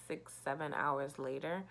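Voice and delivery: drowsy, trailing off; half asleep, drowsy; nodding off. Real, not acted. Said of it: "I'm half asleep".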